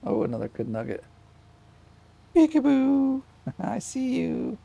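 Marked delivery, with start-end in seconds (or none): 2.3-4.6 loud peekaboo. Real, not acted. Plays peekaboo with baby.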